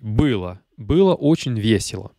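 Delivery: accent sur la première syllabe de «Было», le Ы; accent tonique sur Ы. Shown as a demonstration. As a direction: appuie le Ы de «Было», le o final réduit. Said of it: "mais sur le I". («Было» accentué au début, sur le Ы)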